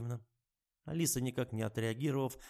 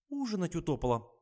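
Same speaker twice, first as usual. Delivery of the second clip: whiny drawl; 7 semitones higher than usual. Acted. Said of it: "плаксиво протянула Алиса".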